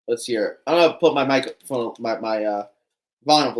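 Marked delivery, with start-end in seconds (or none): none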